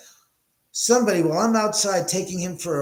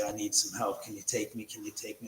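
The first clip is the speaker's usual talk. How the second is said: dog's pleading voice; 5 semitones lower, 10 dB quieter than usual. Pretend. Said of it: "Reggie just got up and decided to walk over to me and say".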